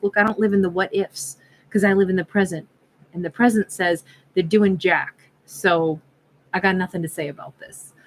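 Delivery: put-on light, matter-of-fact New York accent. Tarot reader voices the realist Ophiuchus character, light New York accent. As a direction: lay down facts with slight New York edge. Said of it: "give a New York accent to this character".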